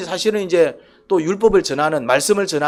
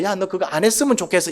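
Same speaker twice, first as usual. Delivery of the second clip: gentle wish. Shown as a demonstration. Pastor showing God's tone, gently caring. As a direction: ask it kindly. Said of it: "어감이 다르다".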